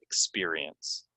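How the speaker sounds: "Experience" slowly, ek-SPEER-ee-ence; slow teacher's model of "Experience"; careful pronunciation. Shown as a demonstration. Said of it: "And then experience".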